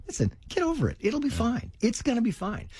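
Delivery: imitated nonchalant dad; shrugging dad. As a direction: brush it off as an unfazed father. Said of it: "he just shrugged".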